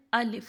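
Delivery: الف held one beat; letter alif drawn out. Shown as a demonstration. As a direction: say الف stretched for one count. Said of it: "الف کو ہم لوگ صرف ایک الف لمبا کریں گے".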